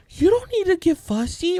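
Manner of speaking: put-on high, emphatic little-girl voice; imitated big sister. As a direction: mimic a child reasoning with a fussy baby. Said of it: "She goes".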